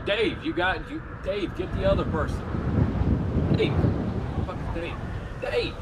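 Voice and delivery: high, urgent calling of a name. Real, not acted. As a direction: yell for him to answer. Calling teammate after connection lost.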